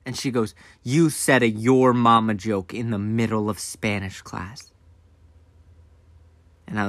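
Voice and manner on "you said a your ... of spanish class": slower, measured mom scolding; retold scolding, each word weighed; deliberate repeat. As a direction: spell out the accusation slowly. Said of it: "And then I went, "What?".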